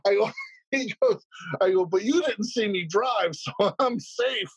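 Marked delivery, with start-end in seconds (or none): 1.9-4.5 high, drawn-out mock plea; retold drunken excuse. Drunk man excusing himself to the cop, slow high mock plea. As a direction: plead slowly in a high voice, hamming it up.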